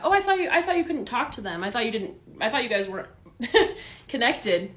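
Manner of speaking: sarcastic, laughing at them. Retold or imitated. Mocking the cops' excuse.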